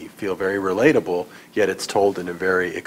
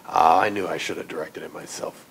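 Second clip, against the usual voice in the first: mock regret; 2 semitones lower than usual. Mock director's regret, laughing.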